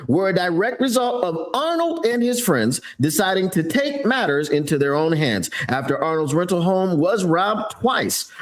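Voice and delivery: lightly put-on news anchor read; newscaster voice. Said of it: "How am I doing with the newscaster voice?".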